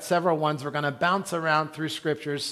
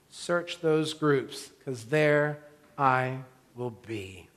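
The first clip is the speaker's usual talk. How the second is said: tender Jesus; 3 semitones lower, 5 dB quieter than usual. Acted. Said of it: "And Jesus says to him in The Chosen".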